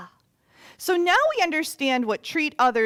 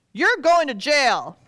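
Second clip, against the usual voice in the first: stern sentence; 4 semitones higher, 9 dB louder than usual. Acted. Debtor sentences servant.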